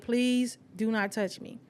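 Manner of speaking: low, soft, slow warning; cold refusal. Retold or imitated. Telling him not to touch her, low and cold. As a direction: hold him off quietly. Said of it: "I'm like".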